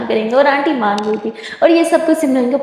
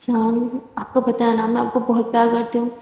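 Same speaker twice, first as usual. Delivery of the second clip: loving; 4 dB quieter than usual. Acted. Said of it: "बहुत प्यार से देखते हुए कहती है".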